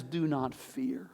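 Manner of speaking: soft breathy whisper of God's comfort; gentle whispered reassurance. Retold or imitated. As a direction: breathe it out, barely voiced. God answers back and says.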